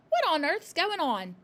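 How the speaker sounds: put-on a girl's shocked call at the chaos; crying out. A narrator's reading. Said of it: "she cried".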